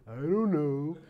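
imitating a child's drawn-out "dunno"; child's reply. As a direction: play the clueless kid answering a parent. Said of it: "They're crying for things".

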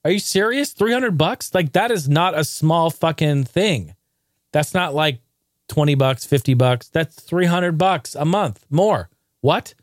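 high, incredulous what the fuck; stunned, furious disbelief; outraged disbelief. Retold or imitated. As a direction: voice jumping up in shocked outrage at the rent. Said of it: "And we're like".

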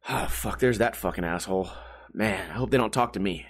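muttered dread. Acted. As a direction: grumble it under your breath, annoyed. Bar patrons dreading someone's arrival.

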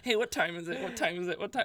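a hint of a nagging kid; pestering kid. Boy pestering the dad about sunset, mildly nagging. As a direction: repeat the question like a pest. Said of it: "I keep coming up to him and be like".

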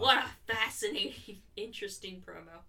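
dry sarcastic praise; mock enthusiasm, deadpan. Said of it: "That's sarcasm".

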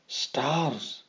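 sharp hissed exclamation; hissed whisper. Acted. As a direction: hiss it under the breath. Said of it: "I hissed".

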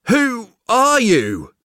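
a slow, tentative ask, gathering courage; nervous question. Acted. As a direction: ask it as if barely daring to. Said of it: "mustered enough courage to ask".

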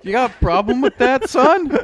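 hotheaded shouting. Pretend. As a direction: grumble like a touchy grandpa. Teasing over cookie taste.

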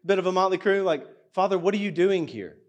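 mock-incredulous congregant asking the Father; sceptical inner voice. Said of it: "you could be thinking to yourself".

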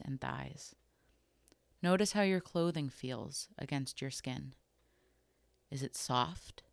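calm, unhurried body scan guidance with long pauses between phrases; guided meditation. Acted. Host guiding listeners through a body scan, calm guided meditation. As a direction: gently lead them through it, leaving room to notice.

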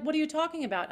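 spring back, wide open; Cockney Eliza. Shown as a demonstration. Eliza brushing off Higgins, Cockney and bright. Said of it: "She's like".

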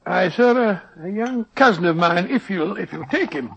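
a lightly done Scottish brogue, rolling and folksy; doctor hides behind a fake Scottish accent; put-on Scottish accent. Disguised doctor bargains with the schoolmaster in put-on Scottish accent. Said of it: "your Scottish accent is beginning to disappear".

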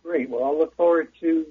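echoing speakerphone sound. Real, not acted. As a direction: talk over a speakerphone in a room. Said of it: "it's echoing".

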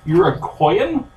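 "Iroquoian" sounded out slowly, syllable by syllable; careful hard word. Real, not acted. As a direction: pick through "Iroquoian" slowly and unsure. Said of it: "I'm gonna butcher this word".

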